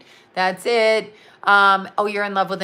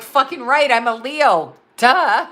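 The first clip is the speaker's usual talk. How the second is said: loud, high sassy comeback; firing back at the scold, sassy and loud; sassy retort; 4 semitones higher, 6 dB louder, slower than usual. Retold or imitated. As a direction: toss it back with attitude. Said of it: "I'm like".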